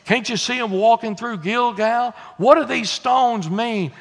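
a hint of a curious kid's questioning; child asking Daddy. Kids ask their father at Gilgal, lightly voiced child. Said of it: "The kids are gonna say".

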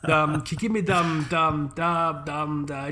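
stuck stammering on the same words; halting, looping ums; imitated desperate dad. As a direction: mimic a man grasping for a word. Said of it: "just like a desperate man grasping at straws".

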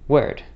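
"word" with a softened vowel, between rhotic and non-rhotic. Shown as a demonstration. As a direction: say "word" as a mix of American and British. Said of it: "a little softer on the O".

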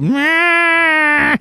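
grumpy meh. Retold or imitated. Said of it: "She's like".

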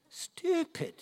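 laughing. Real, not acted.

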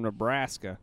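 "Nebraska" drawn out to tease; teasing pronunciation. Shown as a demonstration. Co-host goading his friend from that state, teasingly drawn out. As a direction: say "Nebraska" slowly to get a rise. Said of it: "Why does everybody say it like that".

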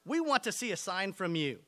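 reading the passage out loud and driving it home; forceful scripture reading. Acted. Pastor reading Matthew to the church, preaching loud. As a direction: preach the verses with rising force. Reads the Bible passage aloud.

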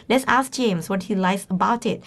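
very slow, careful classroom read; slow example read for Thai learners; slow model sentence. Shown as a demonstration. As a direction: draw each word out for the class. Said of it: "teacher models the example slowly".

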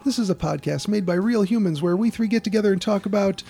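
podcast intro read. Acted.

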